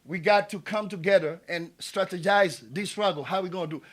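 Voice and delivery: calling out. Retold or imitated. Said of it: "If I say".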